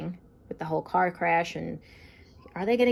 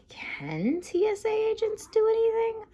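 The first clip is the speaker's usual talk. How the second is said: high, breathy whispered question; whispered aside. Real, not acted. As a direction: ask it as a secret aside. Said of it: "whispered aside question".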